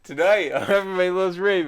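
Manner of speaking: booming TV announcer voice, loud; walrus voice. Pretend. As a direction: announce it like a sitcom intro. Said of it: "it sounded like a walrus".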